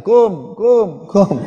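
a hint of a little boy chirping a greeting; toddler voice. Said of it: "anak saya sudah bilang".

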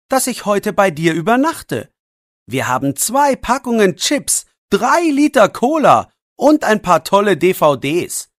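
put-on a boy pressing his friend for an answer; boy Jannik. (leicht erhöhte Jungenstimme, drängend)

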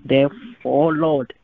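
earnest spoken prayer to the Lord; measured pulpit prayer. Acted. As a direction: pray it, steady and sincere. Pastor leads closing prayer.

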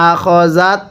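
slow, drawn-out tajweed chant; Quran recitation. Shown as a demonstration. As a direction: recite it slowly, stretching the vowels. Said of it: "কিভাবে পড়ব?". (ধীরে টেনে কুরআন তিলাওয়াত)

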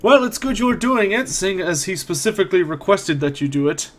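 put-on smug old caretaker, amused; lightly voiced old man, smirking; smirking elderly man. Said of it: "looks up at you with somewhat of a smirk and says".

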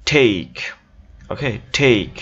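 "টেক" as theik, aspirated t and gliding vowel; English "take" for "টেক", theik; corrected English pronunciation. Shown as a demonstration. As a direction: say "টেক" with a puff on t and an ei glide. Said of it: "এর উচ্চারণটা কি বলছিলাম?".

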